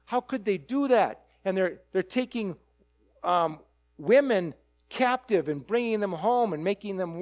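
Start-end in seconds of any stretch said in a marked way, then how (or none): 0.1-1.2 mock outrage. Preacher mimics critics of ancient war as mildly disgusted. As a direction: voice the modern critic's mild disgust. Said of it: "we look at this and we say".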